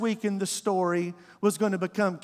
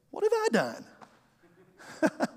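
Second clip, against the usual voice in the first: much higher and very slow, mock hurt little brother; whiny younger sibling; 11 semitones higher, 4 dB quieter, much slower than usual. Younger sibling whining at big brother, high and slow. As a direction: drag it out high like a wounded kid.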